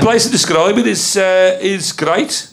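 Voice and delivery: slow, attempted Wolverhampton accent. Performer describing a place for guessers, in a Wolverhampton accent. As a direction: have a careful go at a Wolverhampton accent. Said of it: "So now I'm doing Wolverhampton".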